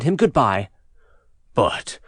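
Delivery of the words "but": giant's voice. A narrator's reading. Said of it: "he said".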